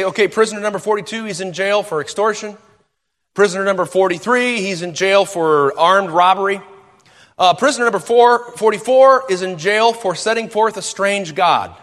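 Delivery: officer reading a list. Retold or imitated. Guard reads the prisoner list to the warden, lightly acted. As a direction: read the charges like a bored clerk.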